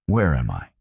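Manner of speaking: hoarse. A narrator's reading. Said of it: "Lisa's voice was hoarse".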